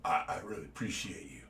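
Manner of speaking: low, soft impression of a big man's voice; quiet low Shaq impression, amused. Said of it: "He says".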